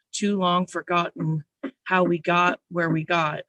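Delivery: measured spoken-word poetry reading; poem recital. Acted. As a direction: read it aloud like a poem on stage.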